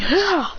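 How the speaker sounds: short, high "ah" yelp; quick cry on the strike; attack cry. Acted. Lycanroc destroying the attack, short high battle cry.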